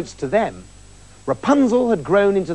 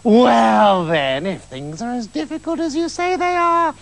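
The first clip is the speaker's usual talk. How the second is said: scheming witch; 2 semitones higher than usual. Acted. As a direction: bargain sweetly with menace. Witch bargains with husband.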